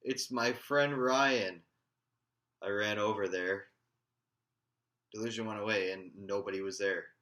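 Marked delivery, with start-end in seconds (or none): 0.0-1.6 loud, high, drawn-out cry of recognition; re-enacted yell. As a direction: yell it out slowly across a crowd. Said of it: "I yelled".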